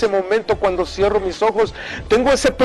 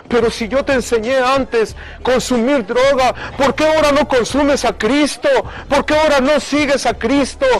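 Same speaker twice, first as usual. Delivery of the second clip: retold fatherly plea, pitched higher; raised, insistent questioning in a retold argument; urgent appeal; 4 semitones higher than usual. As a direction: plead earnestly with a wayward son. Retold argument, father urging son.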